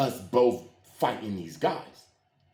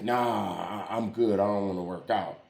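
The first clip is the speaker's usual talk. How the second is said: low, dismissive friend; 5 semitones lower than usual. Retold or imitated. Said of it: "And he like".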